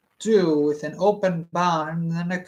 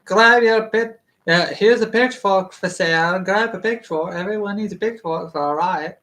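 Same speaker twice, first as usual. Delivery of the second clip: riot-gear hawker; 3 semitones higher, 4 dB louder than usual. Retold or imitated. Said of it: "a bunch of people selling the riot gear".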